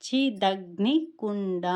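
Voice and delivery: slow చి దగ్ని కుండ with an unpressed last syllable; measured, separated చి, దగ్ని, కుండ; pronunciation demo. Shown as a demonstration. Teacher models the first half of the name, slow syllables. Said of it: "డా అనేది ఒత్తు లేదండి".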